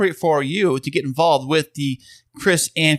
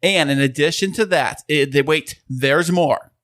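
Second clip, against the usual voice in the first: infomercial guy. Acted. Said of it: "You totally sound like an infomercial guy right now".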